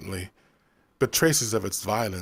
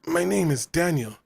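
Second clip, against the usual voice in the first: gruff correction; 7 semitones higher than usual. A narrator's reading. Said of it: "he corrected gruffly".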